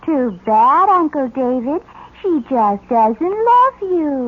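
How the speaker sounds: slow and taunting, savouring the sting. Acted. Teen girl slowly taunting her uncle about his wife. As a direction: drag it out slowly to mock him.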